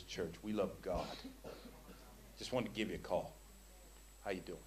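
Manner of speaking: soft acted call. Acted phone message to sister.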